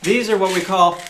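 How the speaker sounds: distorted mic sound; talking through a fuzzy, distorted microphone; fuzz distortion. Real, not acted. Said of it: "microphone right now that's not set up".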